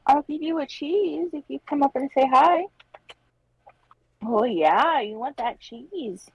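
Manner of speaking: coaxing sing-song pet voice. Real, not acted. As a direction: tempt the cat sweetly. Bribing cat with cheese.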